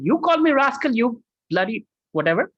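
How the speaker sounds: high-pitched, indignant comeback; hammed-up outrage at an insult; mock angry retort. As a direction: act out a heated accusation, trailing into a dismissive end. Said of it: "when you're angry, you cannot talk like that".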